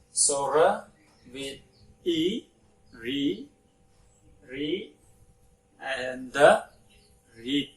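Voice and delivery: "r, e, re, read" built sound by sound. Shown as a demonstration. Teacher blending a word from its sounds for pupils. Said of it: "we pronounce read".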